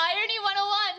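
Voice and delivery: high laugh through words. Real, not acted. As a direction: giggle the words out. Joking, laughing.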